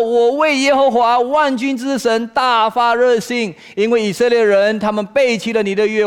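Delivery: high, loud declaration sinking into slow lament; proclaim, then fade into lonely pleading; impassioned complaint. Acted. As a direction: start ringing out, then let it sink slowly. Acting out Elijah's complaint to God.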